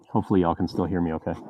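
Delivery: muffled through a helmet; talking from inside a costume helmet. Real, not acted. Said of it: "it actually sounds very Vader-esque".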